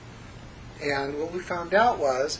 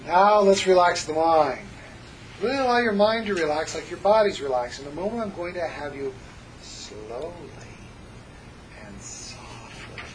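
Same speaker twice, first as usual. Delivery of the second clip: hypnotic induction. Shown as a demonstration.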